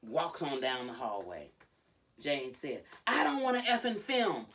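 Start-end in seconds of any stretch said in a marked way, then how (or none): 3.1-4.5 high, loud re-enacted protest; angry refusal. Retelling Jade refusing to film, angry yell.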